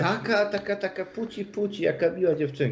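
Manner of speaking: put-on high-pitched cooing over a sweet little girl; cutesy girly voice. Mimics cutesy sweet-girl act.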